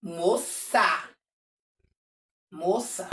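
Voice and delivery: stuck on moça, saying it again and again; child repeating moça, fading; child stalling. Shown as a demonstration. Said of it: "Aí ela para, aí ela começa tudo de novo".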